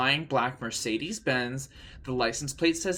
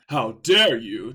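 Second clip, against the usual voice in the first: Snape demanding; 2 semitones lower, 6 dB louder than usual. Acted. Snape confronts the pupils, demanding. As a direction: press each word coldly. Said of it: "demanded Professor Snape".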